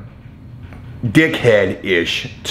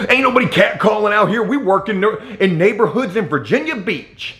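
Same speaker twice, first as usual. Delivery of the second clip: high-pitched mocking imitation of an indignant supervisor; defensive protest; 8 semitones higher than usual. Supervisor denying the catcalling complaint, high and indignant. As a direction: cut in high, protesting all the way.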